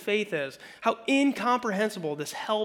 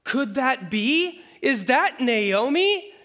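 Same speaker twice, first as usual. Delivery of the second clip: high, slow, amazed mock gasp; breathless small-town gossip voice; gossiping town women; 6 semitones higher, 5 dB louder, slower than usual. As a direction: play the stunned townswomen recognizing her. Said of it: "the women of the town are like".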